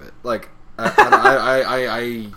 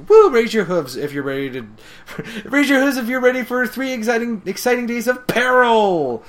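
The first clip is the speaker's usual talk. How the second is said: much higher, louder rally cry; Pinkie cheerleading; 11 semitones higher, 7 dB louder than usual. Retold or imitated. Pinkie rallying the ponies, high loud cheer. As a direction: whip up the crowd like a game show host. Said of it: "she's like".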